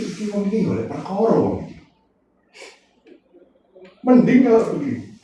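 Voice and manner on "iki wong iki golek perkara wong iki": muttered Javanese thought. Retold or imitated.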